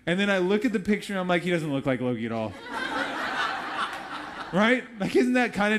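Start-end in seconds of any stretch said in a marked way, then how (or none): 1.4-2.5 laughing. Retold or imitated. Disappointed laughing quote. 2.6-4.5 airy burst of laughter; an audience laughing along with her story; breathy laugh. Real, not acted.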